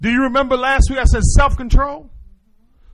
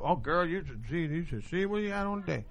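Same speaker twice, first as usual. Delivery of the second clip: much softer catty gossip voice, faster at the end; gossiping friend; 3 semitones lower, 15 dB quieter than usual. Retold or imitated. Woman gossiping on the couch about a friend's outfit, soft and catty. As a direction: dish on someone's outfit, girl to girl. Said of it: "cat talk".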